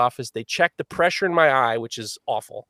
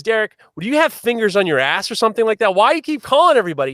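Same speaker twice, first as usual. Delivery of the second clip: mock yelling; 8 semitones higher, 5 dB louder, faster than usual. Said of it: "videoing him and saying".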